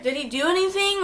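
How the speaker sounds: high, fast, worried asking; anxious high question to mom. Retold or imitated. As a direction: rush the question up high in alarm. Anxiously questioning mom about the cat.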